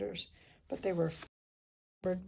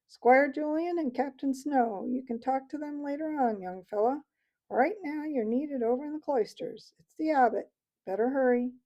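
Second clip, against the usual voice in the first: higher, louder, bluff military chap; brisk old soldier hare; 6 semitones higher, 7 dB louder than usual. A narrator's reading. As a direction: hurry the young mouse along like an old officer. Hare Basil urges Matthias on.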